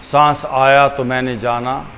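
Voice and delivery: unhurried, measured, leaving room for each breath; guided meditation. Acted. Teacher guiding listeners to watch the breath, calm meditation voice.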